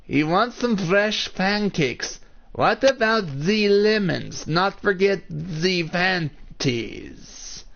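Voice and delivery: high, slow, badly faked British accent; amateur British accent, high and hammed-up; attempted British accent. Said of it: "my attempt at ... a British accent".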